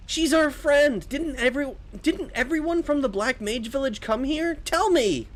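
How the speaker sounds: very high, insistent put-on voice; high-pitched character voice, distressed; pleading companion. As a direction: beg for news of a friend.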